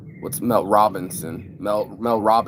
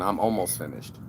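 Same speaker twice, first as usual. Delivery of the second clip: polite; 2 semitones lower, 5 dB quieter than usual. Shown as a demonstration. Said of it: "is a very rude way of saying".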